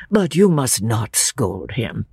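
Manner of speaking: low, slow, gentle plea; pleading old father. Acted. Emerson asks Lucy not to scold George, pleading. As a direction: ask slowly for leniency.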